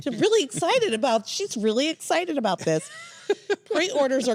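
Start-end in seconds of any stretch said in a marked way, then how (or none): 0.1-2.9 mild gushing excitement, pitched up; excited. Acted. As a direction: play up being really excited. Sincerely voiced excitement for reader.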